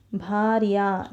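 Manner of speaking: भार्या ending on a long open "aa"; long final आ. Shown as a demonstration. Teacher showing how the feminine word ends, long final आ. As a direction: stretch the last vowel of भार्या into a full आ. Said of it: "अंत में उसका उच्चारण".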